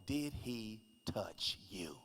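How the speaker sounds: slow, soft cop question; stern cop question. Retold or imitated. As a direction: ask it slowly like a cop. Police questioning wife.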